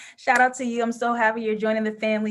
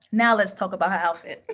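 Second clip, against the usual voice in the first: laughing; 3 semitones lower than usual. Real, not acted. First take, laughing.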